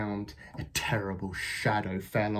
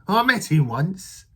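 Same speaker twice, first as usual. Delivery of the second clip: Gruffalo dad; 7 semitones higher, 8 dB louder than usual. Acted. Gruffalo father answers his child.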